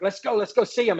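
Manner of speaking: mildly eager retelling of a fired-up boss. Retold or imitated. President rallying tired staff to greet supporters, fired up. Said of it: "he would just be fired up".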